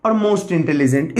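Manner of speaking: stretched-out, slow model answer; teacher slowly modelling the forms; slow demonstration. Shown as a demonstration. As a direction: draw the words out for students. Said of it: "तो इसमें more लगेगा".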